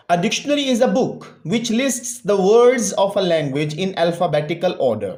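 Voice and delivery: slow, deliberate textbook reading; slow read-aloud. Real, not acted. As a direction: read it out word by word for a class. (ٹھہر ٹھہر کر سبق پڑھنا)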